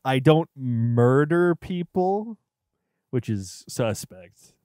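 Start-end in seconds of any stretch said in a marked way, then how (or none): 0.1-2.4 slow quoted killer line. Retold or imitated. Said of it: "the phrase is".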